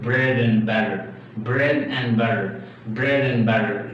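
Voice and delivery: "bread and butter" run together as one word; linked words. Shown as a demonstration. Teacher giving a linking example, linked "bread and butter". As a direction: link "bread and butter", flapping the T in "butter". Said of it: "You must try to link the words together".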